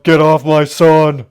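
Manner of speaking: loud, drawn-out protective father's yell. A narrator's reading. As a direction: bellow it at an attacker. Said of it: "came in and yelled".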